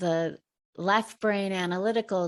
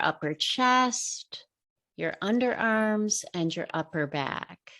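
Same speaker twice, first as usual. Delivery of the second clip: measured meditation guide with long pauses; guided meditation. Real, not acted. Teacher leading listeners through breathing, guided meditation. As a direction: guide listeners unhurriedly, pausing between phrases.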